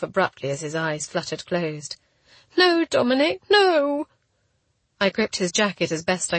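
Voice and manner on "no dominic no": high, loud cry of alarm; panicked, high-pitched protest; desperate plea. A narrator's reading. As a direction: beg him not to slip away. Heroine as he loses consciousness.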